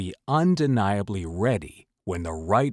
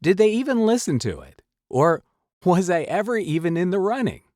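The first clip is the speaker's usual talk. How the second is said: higher, pleading self-questioning; anxious wondering; 7 semitones higher than usual. Acted. Voiceover actor wondering after an audition, anxious and higher. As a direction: voice a worried actor's doubts, pitched up. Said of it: "you can't help but wonder".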